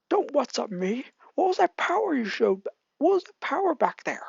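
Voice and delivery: high, pushy rival voice; angry demand. Acted. Bakugo confronting Izuku about his power, high and angry. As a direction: demand answers, right in his face.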